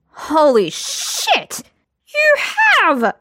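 shocked glee. A narrator's reading. Lambert discovers Geralt's secret, shrieking high with glee.

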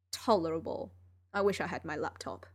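lightly voiced weary genius; Sherlock voice. Sherlock speaking in story.

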